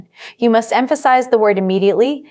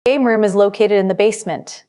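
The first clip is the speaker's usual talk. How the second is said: "basement" stressed clearly as the key word. Shown as a demonstration. Teacher models the sentence with stress on "basement". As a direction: lean on "basement". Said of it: "Put a clear stress on basement".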